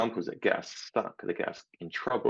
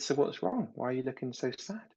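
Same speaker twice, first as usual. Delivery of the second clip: higher-pitched, mild parental concern; 6 semitones higher than usual. Retold or imitated. Parent to suddenly sad preschool son, gently concerned. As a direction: coax a small child to open up.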